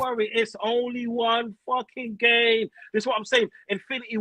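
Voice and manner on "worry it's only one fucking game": mock calm fan. Fan mocking patient supporters, mock calm. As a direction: parody a fan pretending everything is fine. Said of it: "sitting down here saying".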